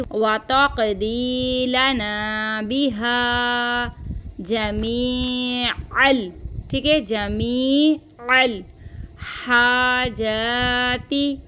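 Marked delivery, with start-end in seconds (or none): 0.0-6.3 slow, with the qaf bouncing back; qalqala on qaf. Shown as a demonstration. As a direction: let the qaf in वातकदी echo. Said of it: "कॉफ की आवाज़ जो है वो पलट कर आएगी".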